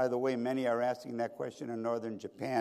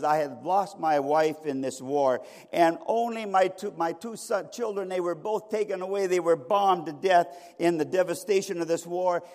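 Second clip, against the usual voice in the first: raised, urgent voice of a bereaved husband; anguished husband testifying; 3 semitones higher, 5 dB louder than usual. Acted. Husband on the witness stand tells his war losses, anguished. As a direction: testify with pressing grief, pitched up.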